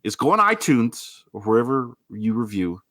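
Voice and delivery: mock stern scolding; gruff tough love. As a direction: scold the freeloaders playfully. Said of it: "This is my tough love speech".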